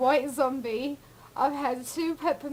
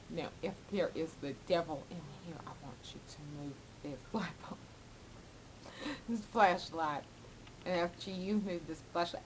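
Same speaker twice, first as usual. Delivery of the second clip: lightly voiced dramatic medium, lower and hurried; hushed, fast mock psychic challenge; 4 semitones lower, 7 dB quieter, faster than usual. Psychic daring the devil to move a flashlight, mock-dramatic. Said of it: "he's so dramatic".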